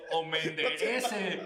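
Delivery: laughing. Real, not acted. Punchline joke.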